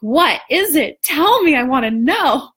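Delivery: retold excited plea; eager plea.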